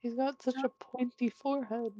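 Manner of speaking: high squeaky voice. Acted. Player comments on image.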